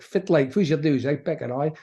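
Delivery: broad Doric greeting from Aberdeen; north-east Scots Doric, said as a sample. Shown as a demonstration. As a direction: demonstrate Doric dialect as a local. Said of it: "a whole thing called the Doric".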